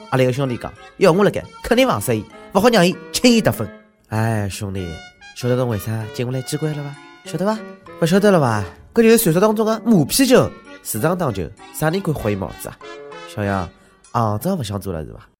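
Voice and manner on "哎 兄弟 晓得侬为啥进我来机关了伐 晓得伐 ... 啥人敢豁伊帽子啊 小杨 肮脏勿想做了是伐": hint darkly like an insider; sly official voice. Acted.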